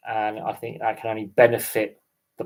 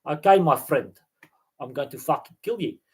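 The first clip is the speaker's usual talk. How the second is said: put-on Afrikaans accent. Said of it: "I could do South Africa if you want".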